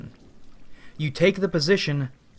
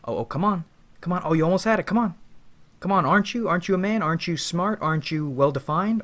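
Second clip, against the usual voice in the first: the ego taunting you to jump higher, in a mocking, goading voice; 4 semitones higher, much faster than usual. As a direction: egg them on like a smug tormentor holding the hoop. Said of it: "laughing at you".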